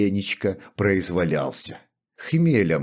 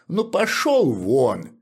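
impatient; 7 semitones higher, 4 dB louder, slower than usual. Acted. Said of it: "нетерпеливо перебил его Гаврила".

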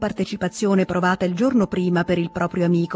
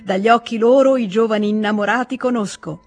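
mild theatrical recitation, a touch louder; declaiming verse; 4 semitones higher, 3 dB louder than usual. A narrator's reading. Stepan Arkadych teases Vronsky with verse, mildly declaiming. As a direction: recite the lines like a poem to tease. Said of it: "declamò Stepan Arkadych".

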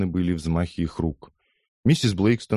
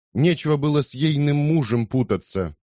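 gossiping woman; 8 semitones higher than usual. A narrator's reading. Scolding woman in crowd.

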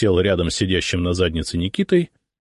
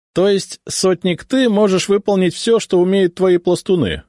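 high, louder incredulous question; disbelieving; 12 semitones higher, 4 dB louder than usual. A narrator's reading. Officer doubting a sotnik can match his scouts, disbelieving. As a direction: challenge it as hard to believe. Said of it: "недоверчиво спросил сотник Донцов".

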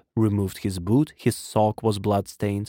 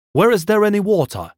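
high, loud, pressing question; urgent plea; 10 semitones higher, 5 dB louder, faster than usual. A narrator's reading. Man running up to my brother, urgent. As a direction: call it out in desperate haste.

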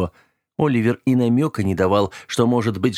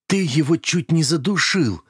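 accusing; 7 semitones higher than usual. A narrator's reading. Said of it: "обвиняюще бросил я".

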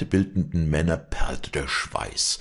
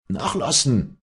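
high, loud order; commanding; 10 semitones higher, 5 dB louder than usual. Acted. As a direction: give the command to slack off. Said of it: "befiehlt der Älteste". (laut befehlend)

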